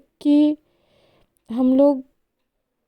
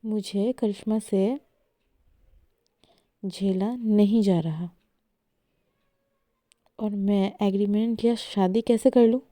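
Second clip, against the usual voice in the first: angry outburst; 4 dB louder than usual. Acted. Esha quarrels, wants breakup.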